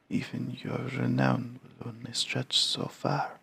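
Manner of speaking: put-on high, slow, hushed old Varl; creaky elder giant, slow and soft. Voices old Varl character.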